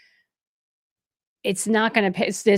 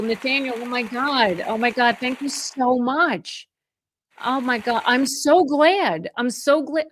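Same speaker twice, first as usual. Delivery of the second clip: high, slow, gushing thanks; overjoyed; 4 semitones higher than usual. Real, not acted. Realtor thanking a viewer for a big gift, gushing. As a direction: near tears with happiness, voice lifted high.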